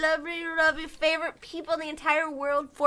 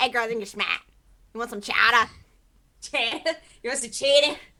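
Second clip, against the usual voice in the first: terrible, fake, put-on Boston accent; 4 semitones lower, 3 dB louder than usual. Trading lines with another speaker, in a bad Boston accent. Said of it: "We have the worst Boston accents".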